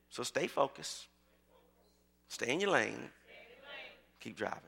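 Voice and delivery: low, soft, spaced-out phrases; quiet, measured pastoral encouragement; hushed sermon refrain. Real, not acted. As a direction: let each phrase settle on the congregation. Quiet closing refrain to congregation.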